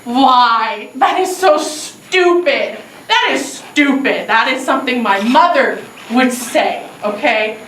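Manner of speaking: slow, drawn-out self-scolding; exasperated with yourself, slowly; self-reproach. Acted. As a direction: berate yourself word by word. Berating self for the question.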